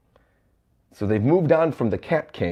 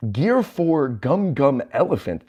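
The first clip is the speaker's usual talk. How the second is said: slow, raised attack announcement; attack call; 4 semitones higher, slower than usual. Retold or imitated. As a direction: draw out the move name like a battle call.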